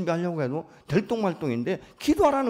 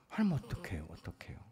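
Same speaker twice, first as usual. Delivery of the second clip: hushed, helpless plea to God; tearful plea; 7 semitones lower, 8 dB quieter than usual. Acted. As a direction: plead softly, trailing away, as if praying through tears. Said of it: "울기도 하잖아요, 하나님 앞에". (울먹이듯 나직한 하소연)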